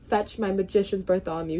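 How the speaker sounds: lightly voiced king giving an order; a hint of a royal command. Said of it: "he commanded".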